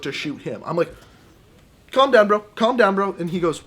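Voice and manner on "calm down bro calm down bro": urgent calming. Acted. Acted plea to startled cop.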